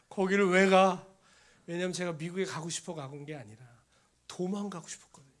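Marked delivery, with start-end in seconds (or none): 0.1-1.1 loud, incredulous retort; acted-out defiant dismissal; emphatic refusal. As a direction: throw it out loudly as a retold protest. Acts out refusing to go.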